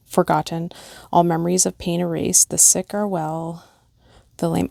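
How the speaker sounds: gentle, measured poem read aloud; lightly heartfelt recitation. Acted. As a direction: read it like a memorial verse. Reads pet memorial poem aloud.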